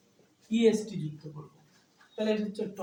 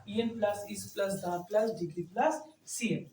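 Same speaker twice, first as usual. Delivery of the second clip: slow dictation; much slower than usual. Shown as a demonstration. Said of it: "dictating a rule slowly".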